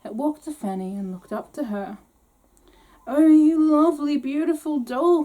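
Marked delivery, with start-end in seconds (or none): 3.1-5.2 put-on high, loud delighted girl; delighted cry. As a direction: gush over the doll. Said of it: "cried Fanny in the greatest delight".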